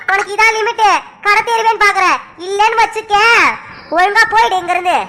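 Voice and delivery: heated mocking quarrel. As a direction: taunt her rival with scorn. Quarrel between two women continues.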